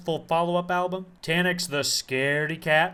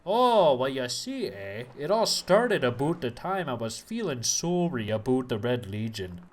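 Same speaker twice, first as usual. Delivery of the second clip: put-on Canadian accent; 3 semitones lower than usual. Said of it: "Are you doing a character right now?".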